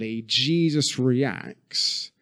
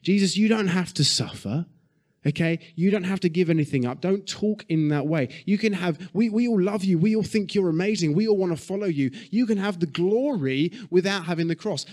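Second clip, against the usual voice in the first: a pitch higher, eager coaxing friend; pleading Peter; 5 semitones higher than usual. Retold or imitated. Peter urging Jesus to avoid the cross, coaxing. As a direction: coax him, higher and pleading. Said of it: "what Peter is essentially saying to him is".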